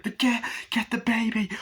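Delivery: very high frantic call; panicked shout. Retold or imitated. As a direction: yell in alarm for someone to grab the baby. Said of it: "he's like".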